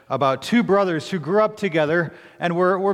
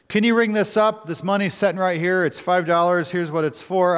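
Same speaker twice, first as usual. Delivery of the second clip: higher-pitched call across the store; retold yell, only a little raised; mild mock yell; 4 semitones higher than usual. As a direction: imitate calling out to a brother. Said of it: "he yells at his brother".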